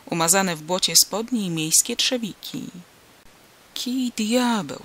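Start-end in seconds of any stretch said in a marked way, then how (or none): 3.7-4.8 muttered curse. A narrator's reading. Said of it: "zaklął".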